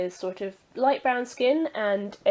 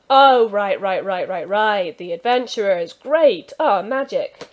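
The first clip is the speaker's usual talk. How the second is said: flustered realisation; 7 dB louder than usual. Acted. Stable master flustered, catching on.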